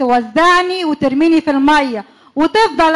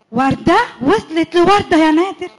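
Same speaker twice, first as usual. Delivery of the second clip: shocked gasp; 2 semitones higher than usual. Acted. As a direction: catch him out, stunned. Wife finds woman's name.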